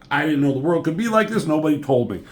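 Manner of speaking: a touch of rushed, high-pitched dismay; mock freak-out. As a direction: lightly imitate someone freaking out. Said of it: "freaking out over this".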